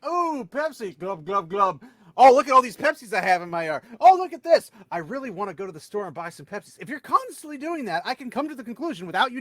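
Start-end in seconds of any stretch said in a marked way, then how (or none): 0.1-1.0 mock Pepsi-craving voice, glugging; gurgling fish man croak. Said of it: "you're constantly going like". 1.0-1.8 gurgling fish man croak. Retold or imitated. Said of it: "you're constantly going like". 2.2-6.8 mock Pepsi-craving voice, glugging; gurgling fish man croak. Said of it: "you're constantly going like".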